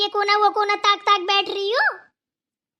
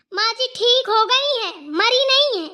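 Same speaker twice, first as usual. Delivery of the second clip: angry retort; 3 semitones higher, 3 dB louder than usual. Acted. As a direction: snap it back at her sister-in-law. Sisters-in-law quarrel over chores.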